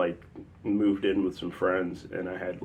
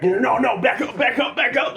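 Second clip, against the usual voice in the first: high, loud imitated pleading; rapid repeated protest, pitched way up; mock panic, fending someone off; panicked backing-off; 6 dB louder than usual. Acting out man backing off.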